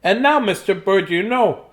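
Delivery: cheerful storybook mouse showing off the house. Acted. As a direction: chirp it out like a little mouse. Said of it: "this is the mouse voice there".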